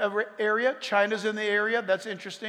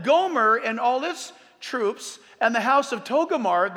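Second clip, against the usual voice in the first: preacher declaiming scripture; scripture reading; 3 semitones higher, 4 dB louder than usual. A narrator's reading. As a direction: proclaim the list of nations firmly. Reads scripture aloud to congregation.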